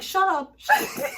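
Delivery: high, loud scolding dissolving into laughter; laughing mock scold. Owner scolding his barking dog, laughing. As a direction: snap at the dog while cracking up. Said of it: "And the guy's like".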